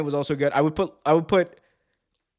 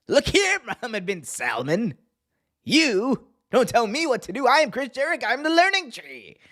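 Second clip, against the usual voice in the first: hammed-up high-pitched wrestler tirade; mock-furious promo, voice way up; Jericho; 11 semitones higher than usual. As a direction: strain it high like an indignant wrestler. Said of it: "a meeting between Chris Jericho and".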